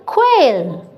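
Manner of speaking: "quail" dropping to a settled fall; falling tune. Shown as a demonstration. Teacher answering the drill with a falling "quail". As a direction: bring "quail" down to close it. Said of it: "it's qu".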